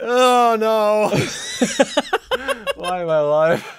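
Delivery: high, loud, over-the-top groan; mock despair. Real, not acted. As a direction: play up the dread. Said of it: "drama face".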